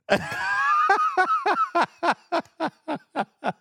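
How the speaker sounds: a long, high burst of laughter. Real, not acted. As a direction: let out a big shrieking laugh. Laughing at friend wearing hat.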